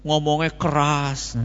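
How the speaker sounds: usual speaking voice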